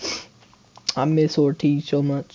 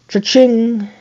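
gleeful cha-ching; 9 semitones higher, 4 dB louder than usual. Real, not acted. Celebrates a strikeout.

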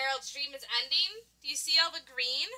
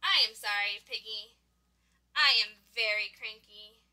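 glum apology; 6 semitones lower than usual. Acted. Cranky character apologises to friend.

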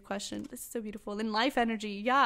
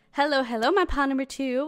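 louder, upbeat hello to the viewer; bright greeting; 2 semitones higher, 6 dB louder than usual. Real, not acted. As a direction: open the reading with cheerful energy. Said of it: "I was actually starting this reading by saying".

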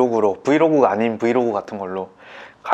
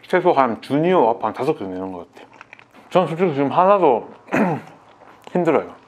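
talking between bites of burger; muffled behind hand at first; mouth full, chewing; 4 semitones higher than usual. Real, not acted. Seen 2: Hand covers mouth early, then bulging cheeks chewing burger bite.

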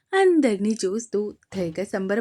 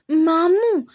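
higher, louder, firm clipped మాము; serious little boy; 6 semitones higher, 5 dB louder, much slower than usual. A narrator's reading. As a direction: call మాము sternly like a tiny boss. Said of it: "సీరియస్గా".

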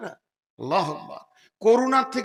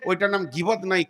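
ordinary talk, nothing marked

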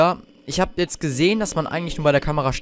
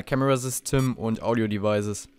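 German line with English words in an American accent; 3 semitones lower, 4 dB quieter than usual. Shown as a demonstration. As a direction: say Camera System like an American. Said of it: "mit meinem amerikanischen Akzent hier".

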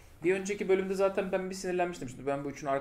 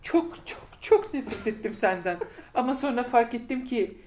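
slow, overwrought hammed-up line reading, breaking into laughter; mocking a cheesy confession with a laughing, teary voice; mock melodramatic Clara; 3 semitones higher, slower than usual. Friend mocking Clara's cheesy line to the Doctor, slow hammed-up drama.

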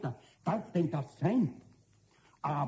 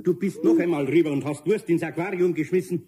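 louder, stern telling-off; angry scolding; 6 dB louder than usual. Acted. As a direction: scold the little goblin. Eder scolds Pumuckl. (lauter, strenger Tadel)

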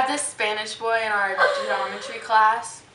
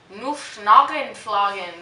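mock German gibberish; 3 semitones lower than usual.

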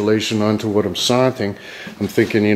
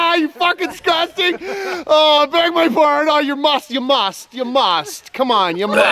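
very high put-on voice; high squealed banter. Teasing a disgusting companion in a high squeal. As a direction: squeal it far above normal pitch.

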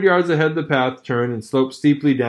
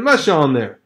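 shout; 4 dB louder than usual. Acted. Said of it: "he shouted".

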